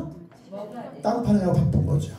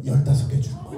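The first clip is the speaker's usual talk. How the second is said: much higher, laughing mock shout; excited shout to kids; 11 semitones higher, 3 dB quieter, faster than usual. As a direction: announce the big reward with a gleeful yell. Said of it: "쪘다 손 들어봐서". (아이들에게 신나서 외치며 웃는 목소리)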